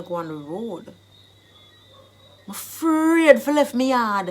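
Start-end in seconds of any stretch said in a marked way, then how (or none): 2.5-4.3 Jamaican Patois. Shown as a demonstration. Teacher acting someone afraid to leave home, in Jamaican Patois. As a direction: stretch the fear out in Jamaican Patois. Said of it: "I've given you the Jamaican dialect".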